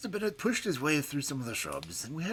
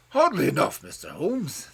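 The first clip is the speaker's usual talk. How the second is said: high-pitched furious screaming cry; 3 semitones higher, 10 dB louder than usual. A narrator's reading. Old professor screaming at Holmes to block the door. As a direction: shriek it at him in malignant rage. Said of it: "cried in a high, screaming voice".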